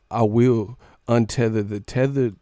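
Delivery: lightly voiced Us doppelganger; creepy tethered voice. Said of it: "like the movie Jordan Peele Us".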